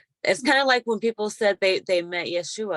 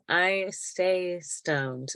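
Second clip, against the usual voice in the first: deadpan joke; 4 dB quieter, much slower than usual. Pretend.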